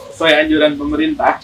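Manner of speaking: muffled behind a mask; talking through a mask; through a face mask. Real, not acted. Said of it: "kita berdua pakai masker nih".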